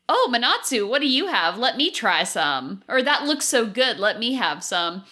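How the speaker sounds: lightly voiced eager Laura; a hint of greedy excitement. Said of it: "usually you would go".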